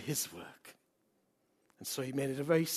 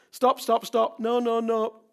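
higher-pitched, insistent order to halt; imitated firm halt; 6 semitones higher, 6 dB louder, slower than usual. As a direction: cut him off, imitating God. God halts the tired preacher.

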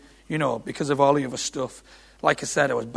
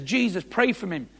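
mildly higher, urgent plea; retold pleading; 4 semitones higher than usual. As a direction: beg for help, retold. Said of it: "and he says".

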